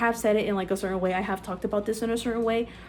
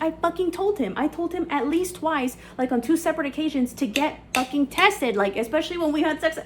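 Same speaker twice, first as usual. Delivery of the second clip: higher-pitched indignant retelling of her own complaint; pissed-off retelling; 6 semitones higher than usual. Retold or imitated. Recounting to viewers how she fumed that he never got tested, pitched-up indignation. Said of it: "I'm, like, extra fucking pissed".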